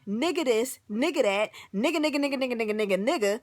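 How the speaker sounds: imitating someone's careless chatter, word after word; mocking repetition. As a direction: rattle it off in mock babble. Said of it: "and you saying".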